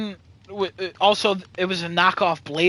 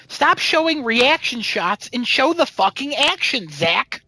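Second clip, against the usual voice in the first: all-caps text read out; 5 semitones higher than usual. Retold or imitated. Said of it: "in all caps".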